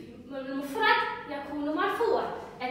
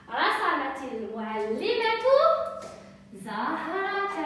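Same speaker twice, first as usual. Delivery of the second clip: slow dictation; slower than usual. Shown as a demonstration. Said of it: "teacher models the sentence".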